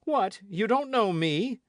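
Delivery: high, loud and slow; loud indignant challenge. A narrator's reading. D'Artagnan confronting the host, loud indignant challenge. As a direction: let the outrage ring.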